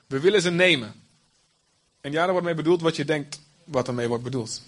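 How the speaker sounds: dramatic scripture reading, crowd and angels voiced; Bible story reading. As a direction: read it aloud like a gripping story. Reads Sodom story aloud.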